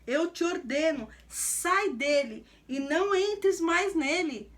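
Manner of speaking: slow, commanding order to the spirit; Jesus casting out the mute spirit, slow and forceful; stern rebuke. Acted. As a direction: lay down each word like a command. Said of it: "repreendeu o espírito imundo".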